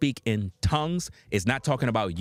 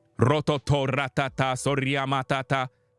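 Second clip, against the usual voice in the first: babbled nonsense syllables, gibberish; 3 semitones higher than usual. Showing how people in these churches sound: imitating speaking in tongues. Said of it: "you hear people sounding like this, listen to this".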